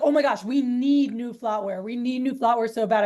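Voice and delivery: excited. Retold or imitated. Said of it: "she got, like, real loud and real excited".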